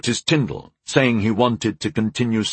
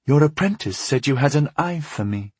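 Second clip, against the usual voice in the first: lightly sultry, slightly higher woman's voice; 5 semitones higher than usual. Acted. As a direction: coax it in a mild sultry tone. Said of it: "she said in a sultry voice".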